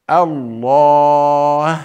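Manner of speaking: الله with a thin, light ha at the end, slow; light final ha. Shown as a demonstration. Teacher showing students the light ha of الله, slow. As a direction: lighten the ha in الله, mouth nearly closed. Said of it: "هكذا".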